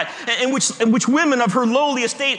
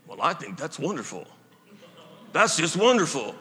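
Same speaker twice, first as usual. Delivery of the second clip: imitating the senator; 3 semitones lower than usual. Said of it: "I don't know why his voice sounded that way".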